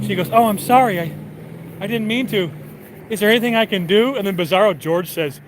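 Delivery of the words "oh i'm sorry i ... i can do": higher-pitched, hurried mock apology; retold apologetic fussing; acted apology. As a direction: plead lightly, imitating someone flustered and sorry. Elaine apologizes after pushing him.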